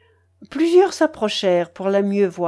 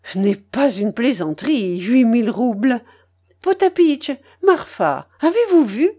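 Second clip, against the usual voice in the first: lightly voiced matriarch, thrilled; excited old grandmother; 3 semitones higher, 4 dB louder than usual. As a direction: call the servants to marvel, with loud bursts. (babouchka un peu exaltée)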